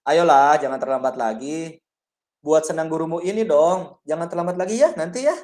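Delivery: cajole him like a buddy; friendly coaxing. Shown as a demonstration. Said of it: "Kalau teman".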